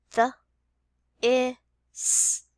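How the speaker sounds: "The, I, s" as separate sounds; sounded out. Shown as a demonstration. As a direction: say "The, I, s" one at a time. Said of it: "Let's finger stretch the word".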